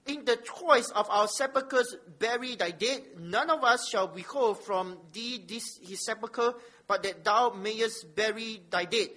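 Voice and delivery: slow, emphatic Bible reading; measured public reading of holy text; scripture reading. Acted. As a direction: read it out firmly to the congregation, weighting key words. Reads scripture aloud.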